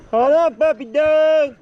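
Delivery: calling a puppy over, slow; calling the dog. Real, not acted.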